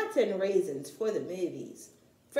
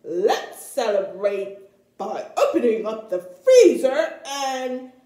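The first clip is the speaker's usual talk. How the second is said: eager Papa; 9 dB louder than usual. Acted. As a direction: savor the treat idea greedily. Papa proposes a treat.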